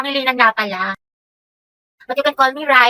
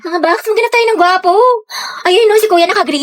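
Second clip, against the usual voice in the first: excited, slightly raised voice; too-loud chatter; 4 semitones higher than usual. Acted. Friend pointing out a cute guy at the mall, too-loud chatter. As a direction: spot someone cute and forget to keep it down. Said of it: "Ikalma mo boses mo".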